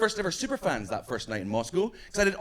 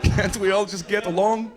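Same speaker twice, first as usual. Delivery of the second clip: slow mock Russian accent; 3 semitones higher, 4 dB louder than usual. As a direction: imitate a Russian pleading for peace, slowly. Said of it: "you sound like you might be Russian".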